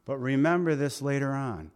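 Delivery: Jesus speaking to Peter after his denial, tenderly; tender reassurance. Acted. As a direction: reassure him gently. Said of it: "I think it was".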